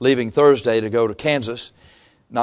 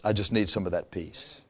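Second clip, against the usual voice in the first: much softer and lower, humble plea; soft prayer; 8 semitones lower, 14 dB quieter than usual. Retold or imitated. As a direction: pray it quietly to the Lord. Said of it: "say to the Lord Jesus Christ".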